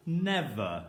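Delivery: "Never" said whole after the sounds; blended word. Shown as a demonstration. Teacher blending sounds into the word for pupils. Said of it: "Our first word will be".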